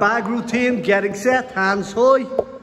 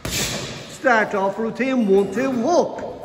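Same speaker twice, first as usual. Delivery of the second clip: slow and easy; slower than usual. Shown as a demonstration. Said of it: "Nice and easy".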